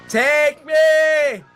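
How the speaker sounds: loud high cry "Take me"; loud despairing cry. Real, not acted. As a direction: wail "Take me" in mock surrender. Giving up in horror game.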